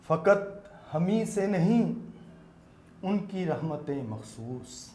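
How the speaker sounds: slow, measured verse; naat recitation. Acted. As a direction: recite each word with weight. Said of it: "نعت کے چند شعر پیش کرنا چاہوں گا".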